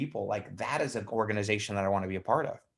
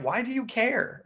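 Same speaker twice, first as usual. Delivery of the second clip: high-pitched mock bafflement; dismissive retort; 12 semitones higher than usual. Blues answering the fussy greens, dismissive. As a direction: act out someone who couldn't care less, voice up high.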